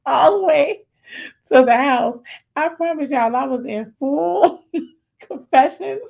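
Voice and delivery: excited. Real, not acted. Emotional retelling, rushing home.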